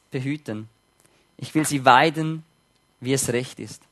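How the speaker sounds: calm, measured Bible reading; scripture reading. Acted. Preacher reading God's shepherd promise, calm reading.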